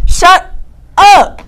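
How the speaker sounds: loud, high playful "shut up"; high, loud teasing yell; mock angry shout. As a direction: yell at your co-host in fake annoyance. Co-host keeps interrupting her.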